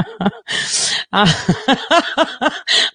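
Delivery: helpless giggling at own joke; long laugh. Real, not acted.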